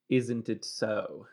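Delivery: slow, spelled-out "isn't it so"; deliberate, drawn-out demonstration; careful enunciation. Shown as a demonstration. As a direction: stretch each word out for learners. Spelling out what innit shortens.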